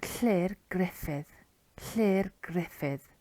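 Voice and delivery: "Llyr Griffith" sounded out slowly with hissed Welsh Ll; Welsh name demonstration. Shown as a demonstration. Teacher showing learners a Welsh name, slow distinct "Llyr Griffith".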